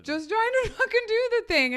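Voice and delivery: high, loud quote breaking into laughter; imitated outburst. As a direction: act out pleading loudly, half laughing. Acted outburst in retold accident.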